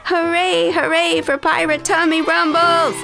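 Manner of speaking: high, jubilant hurrah; shouted cheer. A narrator's reading. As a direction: cheer high like a happy pirate crew. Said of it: "shouted pirates Josh".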